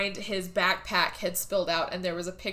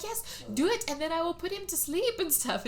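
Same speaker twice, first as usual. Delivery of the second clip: mock insistence; 9 semitones higher, 4 dB quieter than usual. Acted insisting on the plan.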